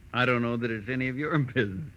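quick, mocking words breaking into a chuckle; taunting laugh. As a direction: laugh at him while brushing off the question. Hippo taunting Marlowe, laughing.

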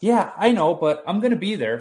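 lively, imitated old man's reassurance; cheerful grandpa reply. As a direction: brush it off brightly, imitating grandpa. Grandpa's reply in retold dream.

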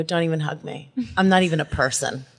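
low, sulky mock-teen refusal; dramatic thirteen-year-old. Refusing the co-host's hug, mock teenage drama. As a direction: pout it lightly, pitch dropped. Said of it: "the most dramatic fucking thirteen-year-old".

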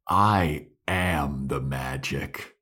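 ominous Willow. Retold or imitated. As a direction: drag it out like a villain.

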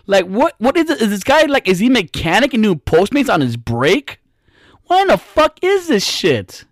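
high, climbing disbelief; incredulous rant. Retold or imitated. Comic rants at a Postmates driver, high disbelief. Ranting about dirty cup.

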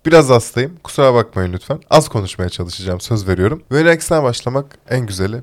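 congested voice from a cold; stuffy nose. Real, not acted. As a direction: talk through a blocked nose. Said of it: "tıkanıklığı ve sesimdeki o şeyi".

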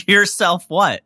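loud, high "Yourself what?"; incredulous question. Real, not acted. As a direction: call out the slip, loud and high. Teasing the host's slip.

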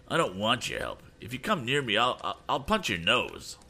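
rage. A narrator's reading. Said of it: "cried Andy, now almost beside himself with rage".

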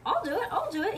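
excited loud yell. A narrator's reading. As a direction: shout it eagerly. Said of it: "he yelled real loud".

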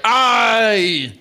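high, loud crowd cheer; cheering recruits. Acted. Recruits answering the toast, loud cheer. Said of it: "you hear a few cheers amongst the recruits".

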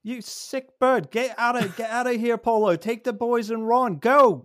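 high, full-voiced yelling; desperate father's shout. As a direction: scream at them to flee for their lives. Father screams at family to flee.

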